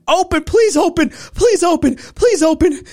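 high, desperate shouted pleas; frantic screaming at the gate; screaming to open. Retold or imitated. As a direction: yell it like you're shaking a locked gate.

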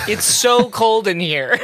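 slow, laughing whine about the cold; laughing complaint. Retold or imitated. Continuing Riker's cold complaint.

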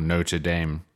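"Notre Dame" as NOH-tuh DAYM, dropping the first r; American "Notre Dame" without the r in Notre; American variant. Shown as a demonstration. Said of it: "in America you say".

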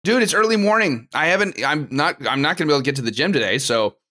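talking while crunching grapes; chewing grapes. Real, not acted. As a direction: speak through a mouthful of grapes. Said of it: "you eating, you eating grapes?".

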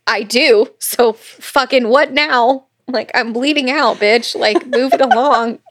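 laughing, impatient push, bleeding out; impatient quote. Retold or imitated. Dying woman urges him on, laughing and impatient. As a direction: hurry it along, a touch exasperated. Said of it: "And she's like".

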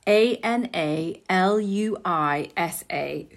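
letter by letter, slow; A N A L U I S A each letter slow; spelled out slowly. Shown as a demonstration. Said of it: "brand called".

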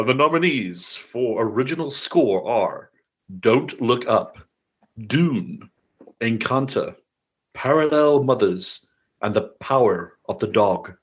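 slow, drawn-out award show announcer. Shown as a demonstration. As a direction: announce each nominee like a big reveal. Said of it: "you know, announcer voice".

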